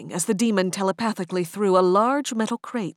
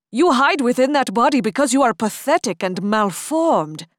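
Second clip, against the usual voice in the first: contemptuous; 5 semitones higher, 6 dB louder than usual. Acted. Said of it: "Hatim said".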